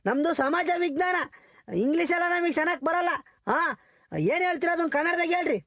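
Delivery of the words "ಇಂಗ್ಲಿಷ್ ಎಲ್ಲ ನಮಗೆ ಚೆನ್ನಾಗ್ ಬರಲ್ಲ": shouted, resentful retort; angry outburst. Acted. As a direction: snap it back at her. Teachers quarrel over English. (ಸಿಟ್ಟಿನಿಂದ ಕೂಗುತ್ತಾ)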